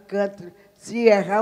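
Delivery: ordinary delivery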